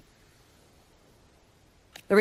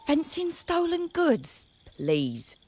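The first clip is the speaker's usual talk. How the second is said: scoffing; 10 semitones higher, much slower than usual. Acted. Scoffing at rumors.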